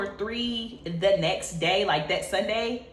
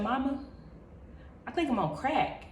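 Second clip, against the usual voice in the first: sincere; 4 semitones higher, 8 dB quieter than usual. Retold or imitated. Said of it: "with the most genuine words, just being for real".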